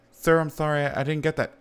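high, quick, nervous interviewer; mock polite interviewer. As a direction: play the worried booth attendant asking questions. Interviewer at E3 asking him.

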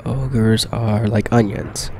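slow, lightly voiced ogre; mock Shrek, slow and deliberate; Shrek quote. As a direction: drag the ogre line out slowly, a hint of Shrek. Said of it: "While I recite quotes from, uh, Shrek".

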